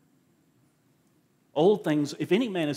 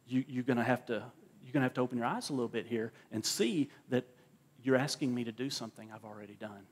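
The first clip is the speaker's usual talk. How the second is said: gentle rebuke; 3 semitones lower, 5 dB quieter, faster than usual. Retold or imitated. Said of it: "he's looking at Paul saying".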